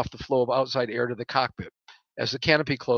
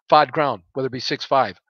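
fighter pilot radio; 5 dB louder than usual. Acted. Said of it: "in my best fighter pilot radio voice".

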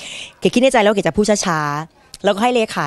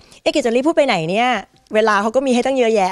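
higher-pitched retold self-doubt; puzzled self-questioning; 4 semitones higher than usual. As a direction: mildly chide yourself, pitched up. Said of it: "เก๋ก็สงสัยตัวเองนะคะ". (บ่นสงสัยตัวเอง เสียงสูงขึ้น)

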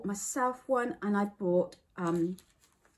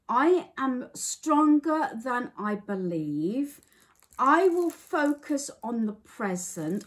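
slow, louder, moved reading of coping statements; emotional reading; 4 semitones higher, 6 dB louder, slower than usual. Real, not acted. Reading anxiety coping statements she relates to, slow and moved. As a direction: read each line as if you need it. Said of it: "I'm trying not to get emotional".

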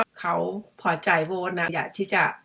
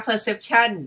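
perception said very slowly, each syllable drawn out; slow savoring of a new word; 3 semitones higher, much slower than usual. Shown as a demonstration. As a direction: linger over perception like a favourite word. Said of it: "คำนี้ชอบนะ". (พูดคำว่า perception ช้าๆ ลากทุกพยางค์)

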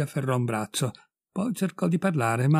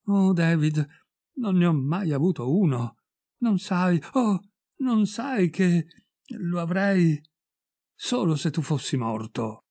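frightened pleading; 4 semitones higher than usual. Acted. Frightened wife pleading with husband.

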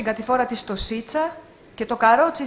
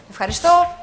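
high, loud squeal; squealed thanks; 7 semitones higher, 6 dB louder than usual. Acted. Playing the customer thanking the seller, high loud squeal. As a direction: shriek a delighted thank-you. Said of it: "Ξεφωνίζω".

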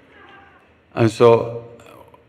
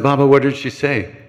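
raised, eager ask; higher urgent question; 4 semitones higher than usual. Retold or imitated. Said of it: "So I said".

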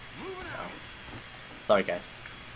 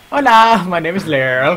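Mexican YouTube vlogger. Pretend. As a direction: introduce yourself like a Mexican vlogger. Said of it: "I sound like some sort of Mexican YouTube vlogger".

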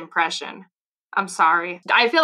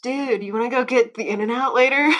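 lightly put-on California dude accent, pitched up; hint of a West Coast dude accent; 4 semitones higher than usual. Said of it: "I'm not gonna hit either coast accent".

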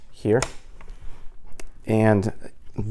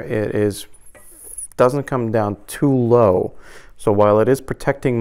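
muffled behind chin bar; speaking inside full-face helmet. Real, not acted. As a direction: voice through helmet shell. Seen 2: Seated speaker wears a chin-barred full-face helmet throughout, fastening its strap.

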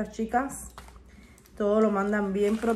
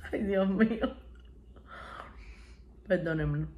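laughing; 6 dB quieter than usual. Real, not acted. Laughing at herself.

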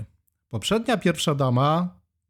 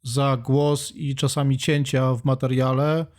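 hoarse from a cold, real; talking through a cold; sick voice. Real, not acted. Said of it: "trochę chory jestem". (głos przeziębiony, chory)

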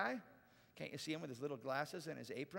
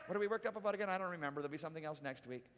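mock offhand, deflating quickly; forgetful shrug; faster than usual. Worked-up people forgetting by next week, mock indifference. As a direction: drop the outrage and lose interest. Mimicking forgetful culture right after outrage.

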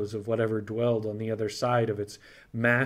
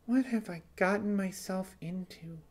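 spoken aloud; 8 semitones higher, 5 dB quieter than usual. Acted. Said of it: "She spoke aloud to the now empty room".

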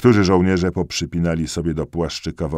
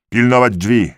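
tag; 6 semitones higher, 7 dB louder than usual. A narrator's reading. Order during the retreat.

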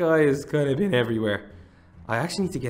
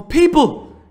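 much higher, louder, slow calls; thrilled shout; 11 dB louder, slower than usual. Real, not acted. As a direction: greet them like long-lost friends. Thrilled to meet villagers.

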